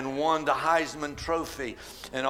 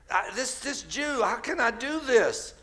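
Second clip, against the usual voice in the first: raised pitch, mildly fearful; fearful questioning; 6 semitones higher than usual. Acted. Mother hesitating to approach Jesus, mildly fearful. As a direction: lightly act out her doubt and fear. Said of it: "she's in fear".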